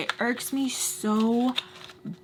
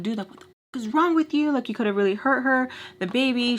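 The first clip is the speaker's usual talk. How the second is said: heated, higher-pitched telling-off; mildly raised voice, scolding; retold yelling; 3 semitones higher than usual. Speaker scolds her friend over the phone, retold yelling. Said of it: "Yelling at her".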